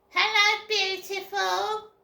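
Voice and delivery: high, loud, drawn-out sleazy greeting; mock flirty voice. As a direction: coo it like a creep chatting you up. Mocking a creepy TikTok message.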